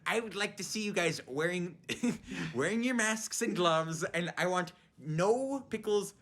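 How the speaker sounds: a hint of the SpongeBob customer, drawn out; Bubble Bass voice. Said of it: "I would always do the Bubble Bass voice from SpongeBob".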